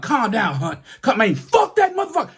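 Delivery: high imitation of his mother; mother calming. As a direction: pitch up like his mom settling him. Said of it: "mother used to call me Calm Down Hunt".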